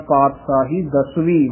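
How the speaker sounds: ਪਾਤਸ਼ਾਹੀ ਦਸਵੀਂ as "paatsaahi dasveen"; plain s in ਪਾਤਸ਼ਾਹੀ, clear v in ਦਸਵੀਂ; said with vava. Shown as a demonstration. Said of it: "ਵਾਵੇ ਨਾਲ ਬੋਲਣਾ ਹੈ". (ਪਾਤਸ਼ਾਹੀ ਦਸਵੀਂ 'ਵਾਵੇ' ਨਾਲ)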